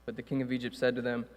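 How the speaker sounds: steady measured Bible reading; reading Exodus to the church, measured and clear; scripture reading. Acted. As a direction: read the passage aloud to the congregation. Reads scripture aloud.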